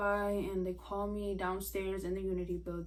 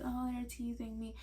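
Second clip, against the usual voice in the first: mock dismissive; 5 semitones higher, 4 dB quieter than usual. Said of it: "like, bullied, like".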